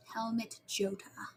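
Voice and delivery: slow, hushed whisper; very soft, drawn-out whispered repeat; whispered echo. Real, not acted. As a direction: whisper the name slowly to yourself. Echoes the same name in whisper.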